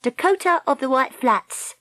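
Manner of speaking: put-on high, proud girl's voice; self-important young heroine; proud insistence. A narrator's reading. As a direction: correct him with pride. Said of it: "Dakota insisted proudly".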